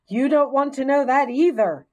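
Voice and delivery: high, loud squeaky hamster voice; dry little squeaky aside; wry squeak. A narrator's reading. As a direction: assure him with a knowing squeak. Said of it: "I assured him".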